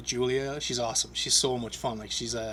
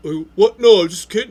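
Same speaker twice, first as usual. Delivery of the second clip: mock panic; 6 semitones higher, 13 dB louder than usual. Friend backpedals in panic.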